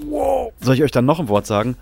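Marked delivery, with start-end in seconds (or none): 0.1-0.5 high squeaky wow; mock amazement. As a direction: pretend to be blown away. Mocking amazement at obvious facts.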